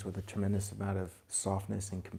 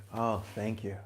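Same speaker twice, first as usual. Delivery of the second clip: grateful thanks; 6 dB quieter than usual. Retold or imitated. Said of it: "if you perceive it for love".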